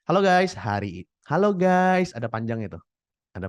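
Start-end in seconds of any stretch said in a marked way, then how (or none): 0.0-2.1 a standard vlog greeting with a lift on halo. Shown as a demonstration. Coach demonstrating a standard vlog opening, upbeat. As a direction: greet the viewers in a plain upbeat way. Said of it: "kalau misalnya mau lebih standar".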